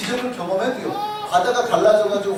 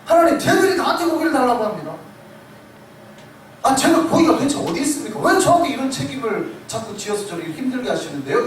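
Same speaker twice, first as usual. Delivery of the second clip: complaining; 3 semitones higher than usual. Retold or imitated. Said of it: "기도하고 짜증내죠".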